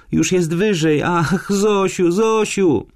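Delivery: put-on very high, drawn-out girl's cry; panicked wail. A narrator's reading. Lonia feels the wasp climbing and calls Zosia, panicking. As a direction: wail the name in rising panic.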